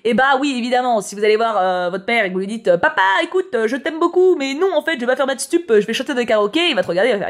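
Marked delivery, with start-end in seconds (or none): 2.8-6.7 put-on higher, eager kid's voice; a hopeful teen breaking news to dad; pleading child to dad. Child voiced telling father plans.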